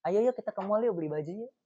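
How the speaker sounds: put-on second take, girlfriend sweetly inviting; gentle coaxing. Shown as a demonstration. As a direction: coax him kindly, easing off. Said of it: "Lebih enak yang kedua".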